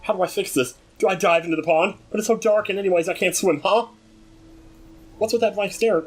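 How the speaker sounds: put-on high, worried girl's voice; high-pitched girl in distress; voicing the farm girl. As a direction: read her lines as a fretful young farm girl.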